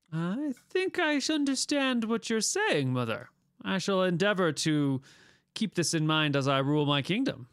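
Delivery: lightly voiced solemn young king; formal, thoughtful reply to his mother; Einhard. Game master plays Einhard.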